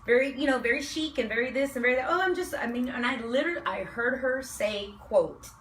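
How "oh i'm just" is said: put-on Valley Girl voice. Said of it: "With the Valley Girl voice".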